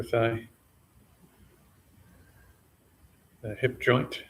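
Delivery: sparse, measured meditation cues with long pauses; name each body part calmly, then leave silence; unhurried meditation guide, slightly subdued; guided body scan. Real, not acted.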